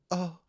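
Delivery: imitated soft, high "oh"; faint helpless squeak, mimicked; weakest little "oh". Imitating a linebacker falling over, weakest little "oh". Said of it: "gives this weakest little".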